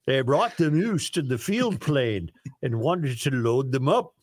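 hammed-up Norwegian accent; worst Norwegian voice. Host reading a listener's moose joke, worst Norwegian accent. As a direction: tell it in a bad Norwegian voice. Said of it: "use your worst Norwegian voice".

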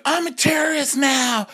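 high, mock-menacing diva voice; campy singer. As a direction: threaten it like a camp diva. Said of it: "And the singer's like".

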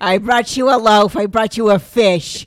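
accountant Jesus. Retold or imitated.

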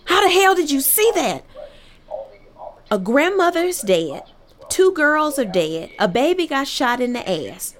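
shouting at her kid to get up, half-acted; retold yelling mom. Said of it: "she comes in my room screaming".

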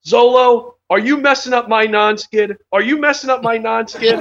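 imitating the lieutenant scolding the sailor who wrecked his deck; mock scolding lieutenant. Boss scolding about the non-skid.

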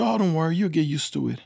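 high, loud imitation of a breezy host mom; reassuring host mom. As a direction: brush off the worry as a cheery host mom. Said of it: "Her host mom came on the phone".

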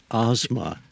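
Asma with an open AH, "AHZ-ma"; proper surname pronunciation. Shown as a demonstration. Co-host correcting his own surname, proper pronunciation. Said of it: "the proper pronunciation of my name is".

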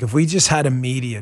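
normal talking voice

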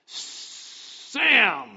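high, loud mock shout; calling out a name. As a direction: holler the name as if calling someone over. Mimics mistaken calling out of names.

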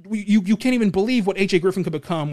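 mock freaking out. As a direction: act lightly overexcited, as if thrilled by the pick. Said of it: "freaking out like".

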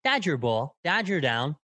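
snappy, up-and-down announcer cadence; short, bouncy play-by-play bursts; Vin Scully impression. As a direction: call it like a baseball sportscaster. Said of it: "quick, snappy, up and down".

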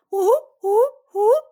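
three high whoops, each swooping up; celebratory whoop. Pretend. Mom giving Veronica three cheers, celebratory whoop.

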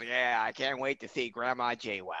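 lightly voiced cartoon slacker; Beavis. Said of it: "and Beavis goes".

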